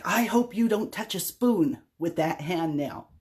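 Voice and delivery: slow, pointed repeat of his warning; a mildly imitated scolding stranger. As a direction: say it deliberately like the man scolding. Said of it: "It's like".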